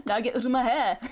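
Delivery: Scottish "out" said as "oot"; hammed-up Scottish governor shooing them off; Scottish accent. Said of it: "I love the word oot".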